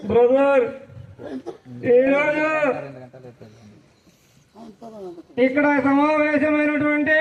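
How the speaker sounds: slow, deliberate politician address with long pauses; Chandrababu Naidu mimicry. Mimicking the chief minister for classmates, in a slow, drawn-out speech. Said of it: "Chandrababu Naidu గారు మాట్లాడితే ఎలా ఉంటుందో".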